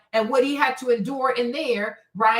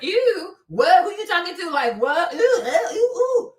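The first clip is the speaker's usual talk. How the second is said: mock disgust; 2 semitones higher than usual. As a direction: play the snobby brush-off for laughs. Imitating the disgusted reaction.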